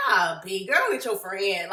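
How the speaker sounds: low, playful jab between friends; jokingly. Retold or imitated. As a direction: toss it off as a joke. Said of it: "jokingly, not like".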